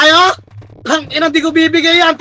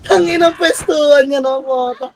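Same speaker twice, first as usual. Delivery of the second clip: cry-laugh through the words; exasperated laughing gamer; laughing despair; 4 semitones lower, 4 dB quieter than usual. Real, not acted. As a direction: laugh helplessly at the bad positions. Laughing despair at team's positions.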